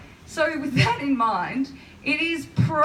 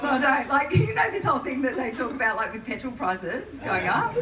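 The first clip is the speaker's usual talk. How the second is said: mock ditzy self; 3 semitones higher than usual. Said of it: "that last one was me".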